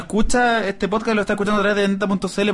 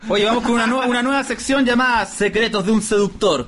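raised-pitch show intro, name drawn out; segment announcer; 4 semitones higher than usual. Pretend. Host introducing a new seductor section, playful announcer delivery. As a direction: announce it, stretching out the final name.

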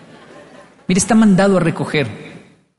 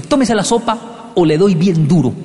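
stern adult threat. Retold or imitated. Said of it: "los adultos nos decían".

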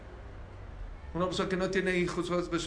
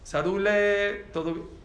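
tender nickname; 3 semitones higher, 4 dB louder, slower than usual. Retold or imitated. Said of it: "le habló en otro tono".

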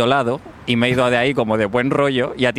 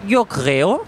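put-on French accent. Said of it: "tengo un acento raro de Francia".

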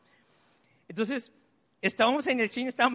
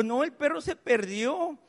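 put-on higher, drawn-out child's lament; mock-tearful, slow and higher; imitated tearful daughter; 6 semitones higher than usual. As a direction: lightly mimic a crying girl's complaint. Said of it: "con un llanto así como".

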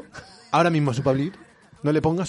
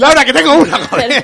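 calling out; 9 semitones higher, 7 dB louder than usual. Real, not acted. Calling out insistently to Laura.

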